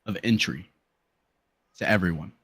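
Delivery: measured game master narration with weighty pauses; dramatic scene setting. Acted. Game master tells players of the boss's arrival, dramatic narration. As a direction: unfold the boss's entrance phrase by phrase.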